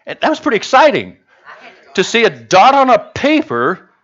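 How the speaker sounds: delighted chuckle over the eclipse dot; amused laughing. Real, not acted. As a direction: laugh at how silly watching the eclipse was. Joking about the eclipse.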